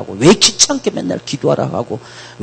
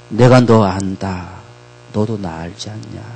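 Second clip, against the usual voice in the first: slow tender quote; 4 semitones lower than usual. Acted. Slow, tender voicing of the Lord.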